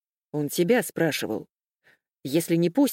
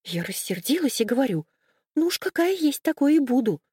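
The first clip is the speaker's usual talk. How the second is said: timid; 6 semitones higher than usual. A narrator's reading. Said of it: "Мура начала робко".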